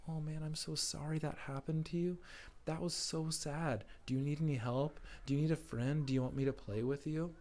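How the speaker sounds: gentle comfort. Acted. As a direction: soothe a sad friend kindly. Comforting a bullied friend.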